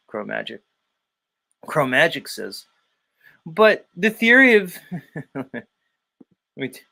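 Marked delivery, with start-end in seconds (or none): 3.4-4.8 higher, slow, mocking know-it-all; Yurt voice. Host mocking a chat comment in Yurt's voice. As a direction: drag the words like a pompous fool. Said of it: "let me do it in the, uh, Yurt voice".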